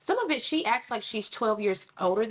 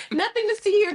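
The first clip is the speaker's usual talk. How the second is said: laughing, higher and louder; 12 semitones higher, 7 dB louder than usual. Retold or imitated. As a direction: giggle it out. Mock hurt mom through laugh.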